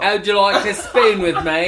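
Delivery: loud, high, exaggerated Cockney; Cockney accent. Shown as a demonstration. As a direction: belt out a broad Cockney pick-up line. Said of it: "do it in a Cockney accent".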